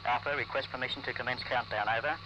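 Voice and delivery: tinny radio transmission, low and distant; crackly military radio. Real, not acted. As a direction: speak through a crackly field radio. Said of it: "Loudspeakers sounding harshly".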